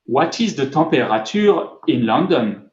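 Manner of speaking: English question in the speaker's own French accent. Shown as a demonstration. Speaker demoing voice search to the audience in a French accent. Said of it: "in English, but with my French, accent".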